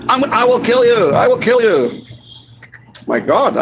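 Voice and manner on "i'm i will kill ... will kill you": higher, threatening quote of the Russian; mock death threat. Russian man threatening the narrator, mock menace. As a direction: jab the words like a pointed finger. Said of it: "pointed at me and said".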